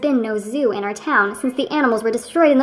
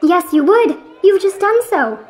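higher, insistent retort; indignant accusation; 4 semitones higher, 3 dB louder than usual. Acted. Friend accusing his companion of mockery, indignant higher retort. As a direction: contradict your friend with indignation.

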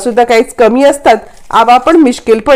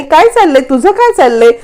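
irritated scolding mother. Retold or imitated. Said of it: "यावरती संगीता चिडते".

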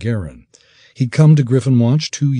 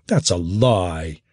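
snarled; slower than usual. Acted. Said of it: "Sergen snarled".

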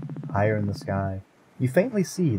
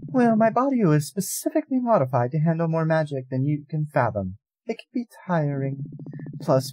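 high, lofty goddess voice; an old goddess, drowsy and aloof; weary ancient goddess; 8 semitones higher than usual. Acted. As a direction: speak as a bored immortal.

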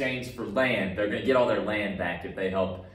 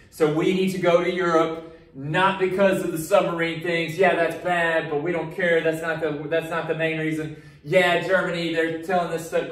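loud, swaggering mock-patriot speech, slowing on defend democracy; mock patriotic bluster; 4 semitones higher, 4 dB louder than usual. Teacher voices America bragging to the class, hammed-up and loud. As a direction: ham up a proud flag-waving American. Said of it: "it's always gotta have this".

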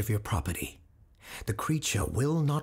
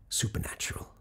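hushed, breathy reveal of supernatural; spooky hushed reveal; ominous whisper; 5 dB quieter, faster than usual. Acted.

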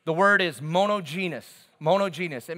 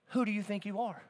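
softly pitched-up, gentle challenge; tender rebuke; 4 semitones higher, 6 dB quieter than usual. Acted. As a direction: ask it softly, with a touch of tenderness. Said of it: "I would just tenderly say".

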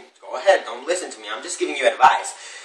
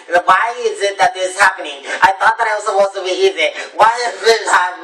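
higher-pitched, put-upon grumbling; complaining; 4 semitones higher than usual. Retold or imitated. People protesting that it was supposed to be easy, complaining. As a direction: act out someone griping at how hard it is. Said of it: "You can't be complaining".

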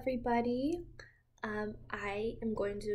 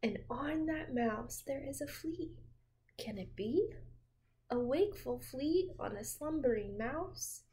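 put-on reading to children. A narrator's reading. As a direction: lull a child with a gentle read-aloud. Reading picture book to child.

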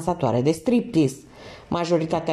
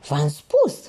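pleasant candid voice; 4 semitones lower than usual. A narrator's reading. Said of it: "cu voce plăcută și un aer candid".

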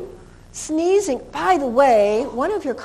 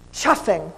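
breathy chuff demo; chuffing sound; 5 semitones lower, faster than usual. Shown as a demonstration. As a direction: puff out a short chuff. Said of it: "That's a better word".

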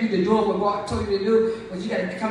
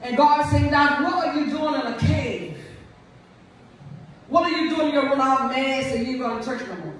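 higher, fervent preacher calling out; preaching at full force; 3 semitones higher than usual. Acted. Preacher rousing the congregation about the cave, fervent. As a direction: preach it up to the pews.

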